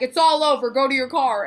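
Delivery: loud, firm crowd-control call; imitated security guard. Security guard sending fan to car, imitated loud dismissal.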